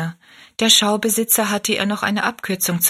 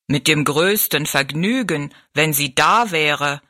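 bowing giant, slow and low; 4 semitones lower, slower than usual. Acted. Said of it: "mit einer Verbeugung".

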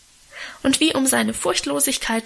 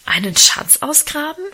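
higher and louder, alarmed question; startled cry; 5 semitones higher, 4 dB louder than usual. A narrator's reading. Girl alarmed by her brother's treasure plan, crying out higher and louder. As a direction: blurt it out in alarm, rising at the end. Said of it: "rief ich erschrocken".

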